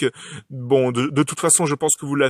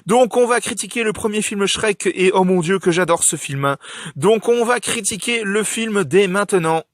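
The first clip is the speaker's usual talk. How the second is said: high, bright, bouncy channel welcome; bright squeaky sing-song welcome; 5 semitones higher than usual. Real, not acted. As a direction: greet viewers with high excitement.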